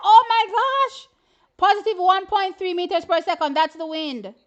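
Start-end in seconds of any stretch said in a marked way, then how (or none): 0.0-1.1 slow, loud, high "Oh my gosh" in awe; replaying the moment Kennedy almost won; excited gasp. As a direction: gasp it out, amazed. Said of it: "I was like".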